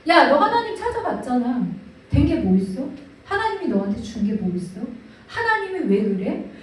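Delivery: mild jeering with a laugh; mocking inner voice. Inner voice mocking the believer, lightly jeering. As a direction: sneer lightly, half laughing. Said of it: "내면의 소리도 비웃기 시작을 하는 거야".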